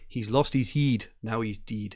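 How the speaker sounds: "heed" and "deed" with long ee; Scottish vowels. Retold or imitated. Host reading John's Scottish joke, "heed" and "deed" with ee. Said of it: "I love the way they say".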